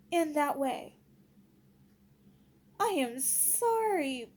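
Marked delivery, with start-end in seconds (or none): 2.8-4.3 drawn-out, emphatic SORRY; slow, pointed "I am sorry"; indignant non-apology. Real, not acted. Indignant non-apology about using kids.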